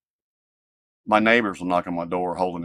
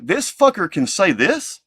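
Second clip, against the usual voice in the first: angry outburst; 9 semitones higher, 7 dB louder than usual. Retold or imitated. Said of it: "And I'm like".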